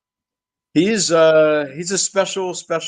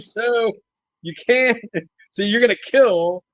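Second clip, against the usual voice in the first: laughing; 5 semitones higher, slower than usual. Retold or imitated. Laughing while retelling own disbelief.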